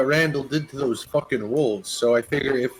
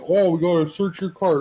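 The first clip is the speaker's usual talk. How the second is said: imitating a guard; 6 semitones higher than usual. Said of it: "and they're like".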